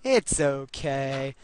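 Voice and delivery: slow drawn-out it's okay; very slow, mock soothing reassurance; mock reassuring. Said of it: "Pats on back".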